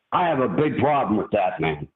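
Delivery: usual speaking voice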